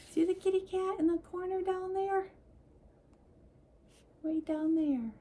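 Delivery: high excited pointing. Acted. Points out cat to child.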